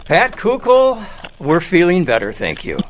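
muffled by a face mask; talking through a mask. Real, not acted. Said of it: "I'm talking through a mask right now".

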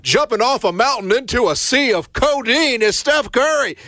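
high-pitched hyped announcer call; Mark Jones. Retold or imitated. Co-host imitating an announcer's Steph Curry call, high and hyped. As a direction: mimic an over-the-top basketball commentator. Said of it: "that's not exactly his voice".

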